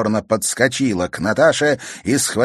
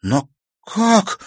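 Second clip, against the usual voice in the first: high, louder bewildered cry; shocked exclaim; 12 semitones higher, 5 dB louder than usual. Acted. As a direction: cry out in disbelief. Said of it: "воскликнула Катерина".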